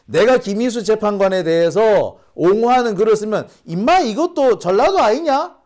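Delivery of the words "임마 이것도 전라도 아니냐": higher, louder sneering jab; mock accuser. Imitating critics calling him Jeolla, mocking. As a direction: mimic a bully's taunt. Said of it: "라고 할까봐".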